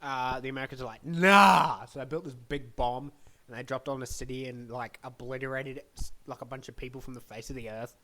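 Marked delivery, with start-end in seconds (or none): 1.1-1.9 loud, punchy comic no; cartoonishly emphatic; mock defiant refusal. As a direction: blurt out a big refusal. Mock American refusal in retelling.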